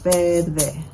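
Verde in two beats, Ver-de; syllable by syllable. Shown as a demonstration. Teacher showing how we'll count, Verde in two beats. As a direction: clap through Verde, one beat per syllable. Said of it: "clap out the syllables".

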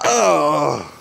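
ordinary delivery

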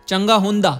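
short Punjabi-accented phrase. Shown as a demonstration. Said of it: "ये Punjabi accent है". (पंजाबी लहजे में)

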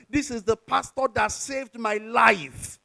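slow, drawn-out mock scream; half-shouted imitation, last word stretched long; retold screaming. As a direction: imitate a grateful woman crying out publicly. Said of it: "she started screaming".

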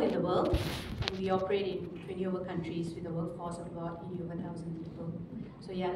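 hoarse voice from the flu; raspy, still recovering from flu; raspy whisper. Real, not acted. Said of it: "excuse my voice, I'm just still recovering from the flu".

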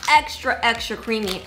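speaking behind a napkin; wiping mouth while talking; muffled through a tissue. Real, not acted. Seen 1: Chewing not visible; she presses a tissue over her mouth while speaking.

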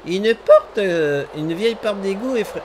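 a granny reading a line; grandmother voice. Acted. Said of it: "mais je fais vraiment une voix de grand-mère".

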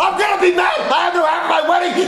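mad yelling. Acted. Groom has no hat for his wedding, mad yelling. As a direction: yell it, thoroughly fed up. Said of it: "He's mad".

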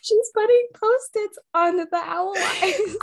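high, loud and slow, cracking up; helpless laughing. Real, not acted. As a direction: squeal it out through real laughter. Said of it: "That's why I'm laughing".

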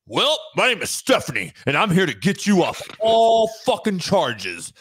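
lightly voiced, over-earnest defender introducing themself; mock public defender. Public defender greeting a client outside court, hammed-up heroic pitch. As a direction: play a rallying defender, stalling on the words. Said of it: "motherfucker greets you as your public defender".

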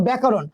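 ব্যাকরণ ending on a stopped n with no vowel; closed final n. Shown as a demonstration. Teacher demonstrating ব্যাকরণ with a closed final n. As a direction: end ব্যাকরণ on a clean n. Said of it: "আবার দেখো আমি বলছি".

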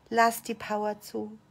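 soft, low-key instruction; restrained, softly spoken prompt; quiet urging. Shown as a demonstration. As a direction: say it quietly and evenly, holding back. Coach says it low, then forcefully.

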